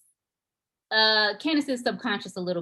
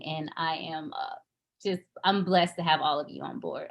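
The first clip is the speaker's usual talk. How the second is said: sincere, settled and slightly lower; heartfelt gratitude; 3 semitones lower than usual. Real, not acted. Director thanking the cast before the table read, heartfelt.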